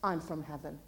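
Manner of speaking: low, soft, matter-of-fact statement; quietly categorical. Acted. Believer answering where they come from, calmly categorical. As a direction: say it low and sure, no doubt at all. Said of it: "categorically tell them".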